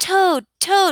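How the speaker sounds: thrilled, excited shout, very high pitch. Reading Frog and Toad aloud as a demonstration, Frog calling Toad: extremely excited shout. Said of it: "Frog sounds like he is extremely excited".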